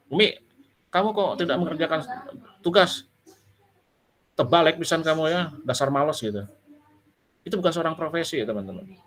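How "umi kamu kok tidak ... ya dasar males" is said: mock angry scolding. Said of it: "tiba-tiba marah-marah".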